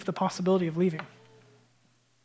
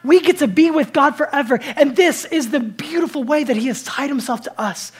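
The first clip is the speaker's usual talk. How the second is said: fading preaching climax; 6 semitones higher, 8 dB louder than usual. Acted.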